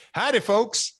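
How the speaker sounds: high, hammed-up showman greeting; over-the-top country showman; wrestler catchphrase greeting. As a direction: greet the crowd as a flamboyant wrestling character. Does his old character's catchphrase.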